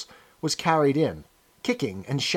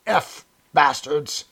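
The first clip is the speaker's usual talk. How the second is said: yell; much slower than usual. Acted. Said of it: "with a yell of".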